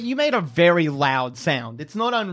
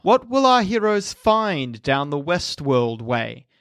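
cliffhanger hushed stop; slower than usual. Acted. Episode outro cliffhanger.

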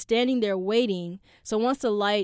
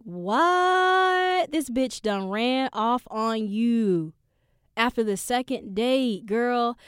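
sassy inner voice; 3 semitones higher, much slower than usual. Retold or imitated. Sassy inner voice scolding herself.

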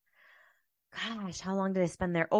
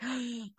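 mock gasp; 3 semitones higher, 5 dB quieter than usual. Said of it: "out of breath".

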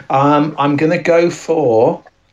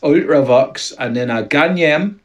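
put-on Geordie accent; 2 semitones higher than usual. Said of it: "all I can say in Geordie".

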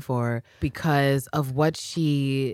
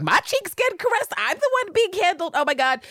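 much higher, giddy overwhelmed gasp; mock flustered; 13 semitones higher than usual. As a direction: play her falling apart at a touch. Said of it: "She's like".

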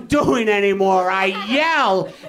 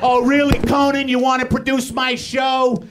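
mock sarcastic snarl. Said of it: "I get angry at all the people".

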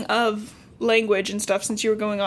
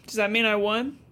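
nerd voice. Retold or imitated. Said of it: "nerd voice pinching your nose".

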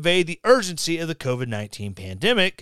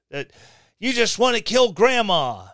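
ordinary talk

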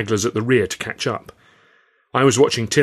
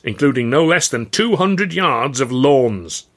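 louder, higher sweeping description; expansive showman pitch; 5 semitones higher, 5 dB louder than usual. Acted. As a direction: paint the picture for the crowd. Boss describes plans to crowd.

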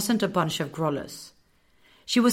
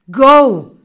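sudden loud yell, pitched up; panicked command shout; urgent shout; 7 semitones higher, 15 dB louder than usual. A narrator's reading. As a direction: get them running now. Fleeing the Grollas.

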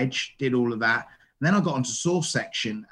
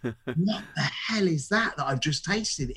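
amazed; 2 semitones higher, slower than usual. Retold or imitated. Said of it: "I was like".

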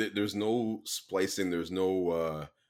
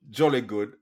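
louder hammed-up British "jolly good"; bad English accent; 2 semitones higher, 7 dB louder than usual. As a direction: overdo the British toff. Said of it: "that was my worst English accent ever".

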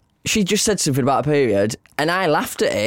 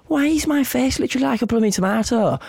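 mock dismay; 10 semitones higher than usual. Retold inner thought, dismayed.

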